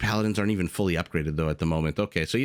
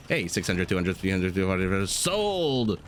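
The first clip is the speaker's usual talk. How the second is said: auctioneer. Pretend. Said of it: "I feel like an auctioneer".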